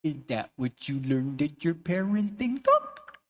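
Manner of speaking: sassy daughter. Acted. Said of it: "looks at her mom as if to say".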